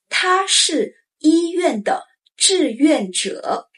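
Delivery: 他是医院的志愿者 slow and careful; slow model sentence. Shown as a demonstration. Teacher modeling the example sentence, slow. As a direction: stretch 他是医院的志愿者 out. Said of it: "For example".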